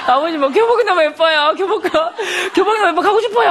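high-pitched, laughing mock gush; hammed-up, giggly pleading; gushing plea. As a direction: play an overexcited kid begging dad. Acts out gushing wish to father.

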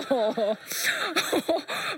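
a burst of real laughter at the memory. Real, not acted. Mother remembering her son's surprise, real laugh.

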